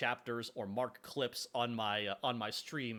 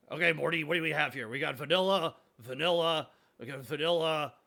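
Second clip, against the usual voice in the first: hammed-up gruff scientist, louder; a showman listing syrups to Morty; Rick voice; 4 semitones higher, 7 dB louder than usual. Playing Rick, listing vanilla syrups to Morty.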